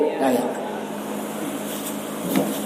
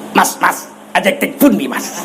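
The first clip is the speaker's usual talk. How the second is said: Javanese said in a blunt Batak accent; 6 semitones lower, 5 dB quieter than usual. Shown as a demonstration. Preacher shows Javanese spoken in a Batak accent, comic clash. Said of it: "Coba bahasa Jawa, logat Batak".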